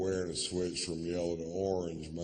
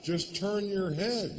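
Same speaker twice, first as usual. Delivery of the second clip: slow instruction; 10 semitones higher than usual. Acted. Slow instruction to helmeted mother.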